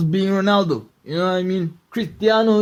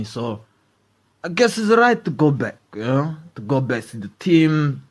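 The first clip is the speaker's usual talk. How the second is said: imitating Ronaldo; 6 semitones lower than usual. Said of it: "He's like".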